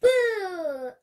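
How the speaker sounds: loud sudden boo to startle; scary boo. Acted. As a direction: jump out and shout boo. Teacher scares child.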